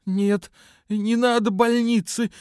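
high, slow, strained wheeze pushed harder; a daughter faking a sick mother, wheezing harder and slow; stronger faked wheeze. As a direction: rasp it out worse to sell the fake illness. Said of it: "ещё сильнее захрипела она".

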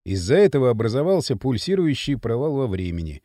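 low-pitched, measured scientist's explanation; patient explainer Спартак. Acted. Спартак explaining the time gap to Маша, low and measured.

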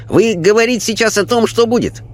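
high, placid voice of a wise spirit; Chinese spirit voice. A narrator's reading. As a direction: speak as a calm, otherworldly Chinese sage. Spirit Chang speaks.

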